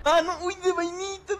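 excited. Real, not acted. Narrow escape in game.

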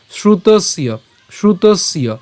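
"শ্রুতস্য" parted after the s; broken-up pronunciation. Shown as a demonstration. Teacher breaking the word up, "শ্রুতস্য" in two parts. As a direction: say "শ্রুতস্য" as shrutos, yo. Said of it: "এটা যদিও ভেঙে দিয়েছি".

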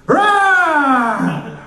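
hammed-up lion roar. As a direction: roar like a lion after dinner. Comic playing a roaring lion.

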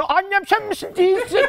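put-on high small child's voice; a small lost boy asking, high and timid; lost little boy. Lost child asks strangers if they're his mother, in a high little voice.

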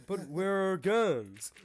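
put-on high, slow, loud questioning boy; stretched-out, high-pitched puzzlement; puzzled boy. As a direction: ask as a bewildered young hunter. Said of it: "He's like".

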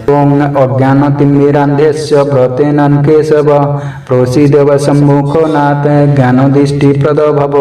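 slow, measured Sanskrit chant; slow devotional recitation; mantra recitation. Shown as a demonstration. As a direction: intone the prayer slowly and devoutly. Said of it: "Rama একাদশীর পারণ মন্ত্র".

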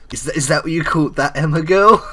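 high, loud, hammed-up accusation; mock accusing girl. Imitating her reply about the nickname, mock accusing. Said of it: "and she'll be like".

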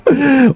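quick amused chuckle; short laugh. Real, not acted. Laughs at low score.

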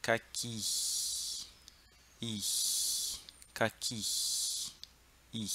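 "Caqui" with the final i trailing into a long hiss of air; ar passando no fim. Shown as a demonstration. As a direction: say "I" and let air hiss through after it. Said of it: "você só deixa o ar passar, assim, ó". ("Caqui" com o ar passando depois do i)

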